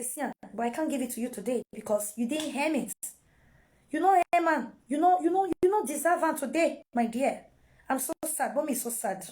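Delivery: mother pretending near tears, refusing gift; put-on sadness. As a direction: act heartbroken to withhold the gift. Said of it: "Do like one even cry".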